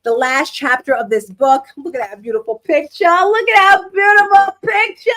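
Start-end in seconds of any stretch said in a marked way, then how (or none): 3.1-5.1 high, loud, slow exclamation; gushing. Real, not acted. Showing viewers a picture of her son, loud gushing. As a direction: draw it out loudly in showy delight.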